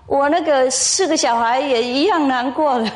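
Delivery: punchline squeezed out through laughter; can't hold back a laugh on the last line. Real, not acted.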